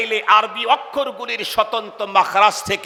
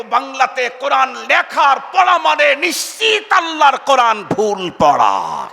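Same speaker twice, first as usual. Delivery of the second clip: loud warning; 4 semitones higher, 5 dB louder than usual. Real, not acted. Preacher warns the crowd.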